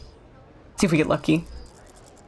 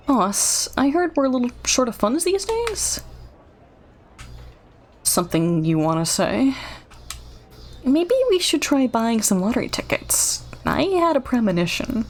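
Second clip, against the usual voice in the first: lightly voiced game character; 4 semitones higher than usual. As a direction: read the NPC line a little higher. Voices otter dialogue.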